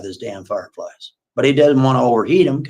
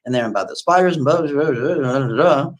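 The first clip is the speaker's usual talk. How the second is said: fast, rising blah blah; mocking rant; 4 semitones higher than usual. Kathy ranting in her head about bug dates, mocking. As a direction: dismiss his bug talk. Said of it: "She's thinking in her head".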